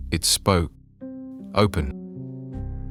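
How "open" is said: breathy layered whisper, hushed; eerie whisper. A narrator's reading. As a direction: whisper it like many voices at once. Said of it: "Just one word. Wet and soft and too familiar".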